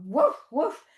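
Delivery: put-on kids' yoga dog bark. Shown as a demonstration. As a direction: bark like a puppy. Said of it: "play with your dog".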